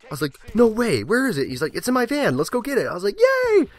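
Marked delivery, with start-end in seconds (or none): 0.6-1.5 squeaky eager question; high mock excitement. Gamer hearing about candy, high and eager. 1.8-2.9 squeaky friendly invite; high creepy-goofy lure. Retold or imitated. Recruiter luring him to the van, high and goofy. 3.2-3.7 put-on very high, loud childish cheer; squealed yay. Gamer cheering for candy, high squeal.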